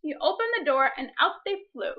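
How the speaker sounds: put-on reading a picture book aloud to children; story reading. Teacher reading a picture book to her class, storytime voice.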